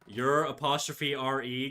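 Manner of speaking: slow, deliberate spelling-out; drawn-out correction, item by item; pointed spelling correction. Real, not acted. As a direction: spell it out slowly to correct them. Correcting a chatter's spelling out loud.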